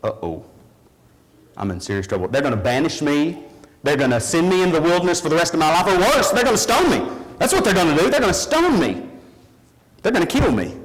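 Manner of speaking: spiral into fear of being stoned; frightened woman. Acted. Woman fearing punishment, building from hushed to panicked. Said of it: "hear the woman thinking".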